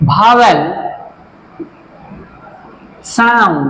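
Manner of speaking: one word at a time with long gaps, some spelled out letter by letter; word-by-word dictation. Shown as a demonstration. Teacher writing on the board and dictating word by word, slow. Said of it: "এর সংজ্ঞাটা বলে দিচ্ছি".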